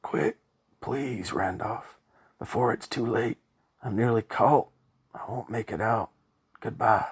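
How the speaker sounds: high, loud desperate pleading; scream of despair. A narrator's reading. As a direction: beg him to run as all hope goes. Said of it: "a scream of despair".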